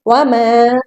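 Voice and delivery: "वमा" with the final aa slightly held; slight elongation. Shown as a demonstration. Teacher showing a light madd, "वमा" gently lengthened. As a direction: stretch the end of "वमा" a little. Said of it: "थोड़ा ही खींचेंगे".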